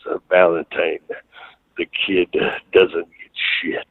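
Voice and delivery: halting, measured veteran wrestler voice; Harley Race impression. Harley overrules Valentine about the kid, Harley Race impression. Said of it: "impression of Harley there".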